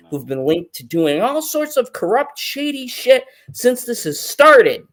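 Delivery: fired-up rant against the panel; angry rant. Real, not acted. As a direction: let the anger pour out. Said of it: "I'm gonna bring it".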